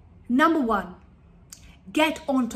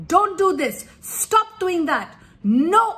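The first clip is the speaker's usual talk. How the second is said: louder, sharp parental no's; nagging commands; 4 semitones higher, 4 dB louder, slower than usual. Shown as a demonstration. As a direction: scold a child nonstop. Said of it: "We give them negative commands".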